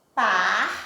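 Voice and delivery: "partilha" broken into par... ti... lha; syllable by syllable. Shown as a demonstration. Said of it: "Quando eu digo". ("partilha" dito devagar, sílaba por sílaba)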